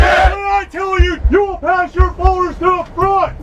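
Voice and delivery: drill sergeant. Real, not acted. Drill sergeant yelling orders.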